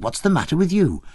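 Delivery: put-on big peasant girl aghast at the starving man; shocked peasant girl. A narrator's reading. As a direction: fuss over him in high alarm. Maria voiced, shocked.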